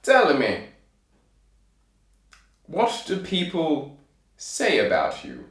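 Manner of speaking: deliberate royal questioning; king's voice. Acted. King questioning the tailor from his throne, deliberate kingly voice. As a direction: pause weightily after the command. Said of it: "said the king".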